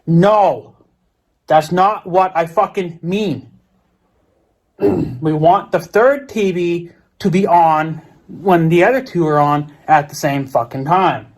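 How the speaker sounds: slow, emphatic retold irritation; retold snapping. Irritated customer setting the phone agent straight, retold snapping. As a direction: snap back deliberately, each word weighed out. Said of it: "I snapped".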